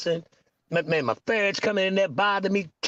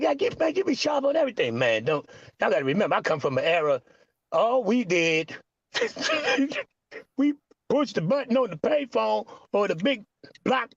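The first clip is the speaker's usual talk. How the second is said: put-on quoting the baby's dad; 3 semitones higher than usual. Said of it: "she be like".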